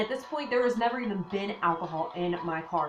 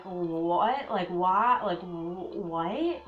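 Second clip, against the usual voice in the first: stammered, baffled questioning; puzzled, halting disbelief; confused; 2 semitones lower, much slower than usual. Retold or imitated. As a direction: re-enact being lost for words, voice rising on each question. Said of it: "Like, I was so confused".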